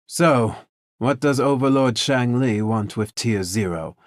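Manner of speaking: loud, high frustrated demand. A narrator's reading. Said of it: "a frustrated voice echoed".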